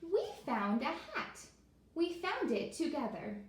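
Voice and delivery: delighted turtle sharing the find; turtle character. Acted. Turtle character speaks in story.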